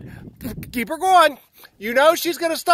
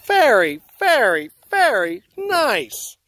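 slow drawn-out praise; 2 semitones lower, slower than usual. Real, not acted.

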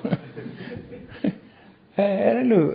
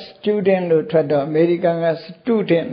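British and American; much slower than usual. Shown as a demonstration. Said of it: "အင်္ဂလိပ်က ... အမေရိကန်က".

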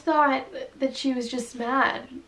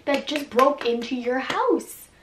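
imitating angry friend; 3 semitones higher, 4 dB louder than usual. Friend yells at her for sleeping with the intruder. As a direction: scold her like a pissed best friend. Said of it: "Be like".

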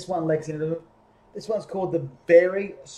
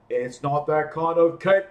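louder, calling up the tree; yelled; 5 dB louder than usual. Acted. Bear calling up to Elephant stuck in the tree, yelling. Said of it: "yelled Bear".

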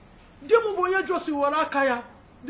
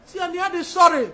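louder insistent repeat of "Si ya na ya dị sorry"; raised repeat; 3 semitones higher, 4 dB louder than usual. Retold or imitated. Telling how sister was forced to apologise, insistent. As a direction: push "sorry" out firmly. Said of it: "My sister wee sị".

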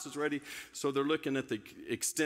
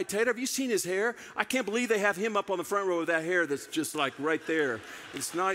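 jealous singer; 3 semitones higher than usual. Retold or imitated. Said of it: "jealous singer rant".

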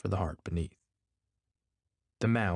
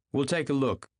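doubtful; 6 semitones higher, 3 dB louder than usual. A narrator's reading. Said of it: "he said doubtfully".

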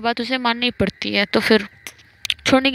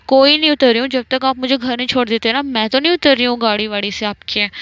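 stubborn refusal; 2 semitones higher than usual. Retold or imitated. Manu refuses to leave the car.

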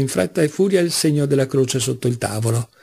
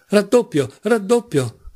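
higher-pitched, heated gambler's call; insistent; 7 semitones higher, slower than usual. Acted. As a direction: raise the bet with mounting insistence. Mitya doubles bets heatedly. (rilancio insistente, voce più acuta)

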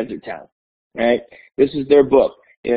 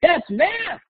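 high, playful teacher double take; teacher teasing his class about math; mock surprise; 13 semitones higher, slower than usual. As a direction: pretend to be shocked. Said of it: "And I said".

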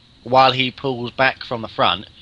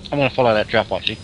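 mouth full; 3 semitones lower, faster than usual. Real, not acted. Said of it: "talking with his mouth full".

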